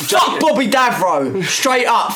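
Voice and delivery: loud, high, furious outburst; angry rant. Real, not acted. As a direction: shout it at him, fuming. Ranting at Bobby Davro.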